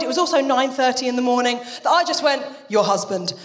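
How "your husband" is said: shocked, annoyed. Retold or imitated. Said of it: "I was so sort of shocked, annoyed".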